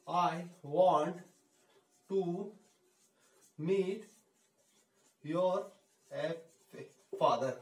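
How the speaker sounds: each word spoken apart with long pauses; teacher slowly spacing out words for a learner. Shown as a demonstration. Teacher dictating to students, word by word with pauses. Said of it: "want को थोड़ा I want बोलोगे ना".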